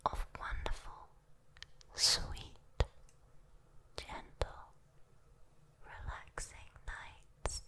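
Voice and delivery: soft whisper, word by word; soothing whisper. Acted. Demon offering a human a lifetime of nights, whispering soothingly. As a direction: let each word drift out gently.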